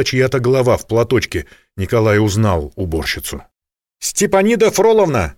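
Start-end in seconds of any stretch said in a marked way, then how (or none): 4.0-5.3 calling out. A narrator's reading. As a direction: shout her name to reach her. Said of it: "крикнул женщине". (громкий оклик уборщицы)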